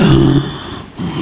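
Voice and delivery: a sharp, audible in-breath of amazement; imitated gasp of awe. Showing his sisters the carving, a retold awed gasp. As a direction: mimic the family gasping at the carving. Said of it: "everybody took this deep breath".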